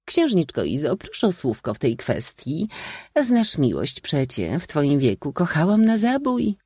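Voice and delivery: high, lively spinster urging; coaxing old maid. A narrator's reading. Aunt urging her young niece to define love, coaxing.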